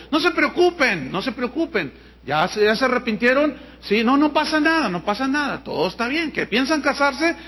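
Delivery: high, mock-comforting pastor voice; soothing pastor. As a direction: brush it off lightly, like a careless pastor. Pastor retold, soothing couple. (pastor tranquilizador fingido)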